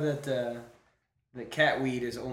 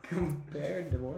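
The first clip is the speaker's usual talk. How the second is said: laughing; 3 semitones higher, slower than usual. Real, not acted. Laughing at cat food claim.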